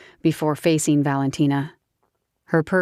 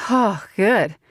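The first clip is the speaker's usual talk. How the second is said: put-on higher, giggly drunk southern woman; tipsy southern woman; 5 semitones higher than usual. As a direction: play the tipsy belle teasing him. Grace's voice.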